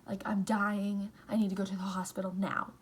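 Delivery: loud, urgent retold panic, the last line rushed; begging mom for the hospital in a panic; panicked plea.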